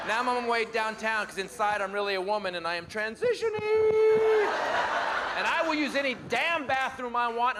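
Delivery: lightly voiced gushing liberal, fast at the start; a touch of breathless outrage; liberal impression. Comic doing a liberal for the conservatives, light gushing voice. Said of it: "my impression of the liver".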